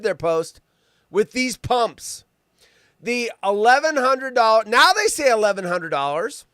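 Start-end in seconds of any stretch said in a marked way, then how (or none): none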